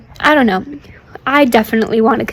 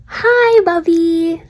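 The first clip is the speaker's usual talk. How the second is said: bright greeting; 6 semitones higher, much slower than usual. Real, not acted. Greeting sister in video.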